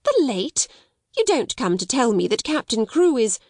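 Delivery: cried out. Acted. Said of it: "she cried out".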